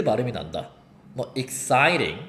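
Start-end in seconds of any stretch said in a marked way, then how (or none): 1.4-2.2 "exciting" langzaam met getikte t, als "iksairing"; flap T. Shown as a demonstration. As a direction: rek "exciting" uit met zachte flap. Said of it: "exciting이 아니라 exciting".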